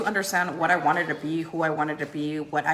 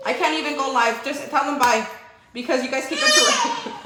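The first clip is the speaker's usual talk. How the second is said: voicing the baby; 6 semitones higher than usual. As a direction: speak for the fussy baby. Mock voice for baby daughter.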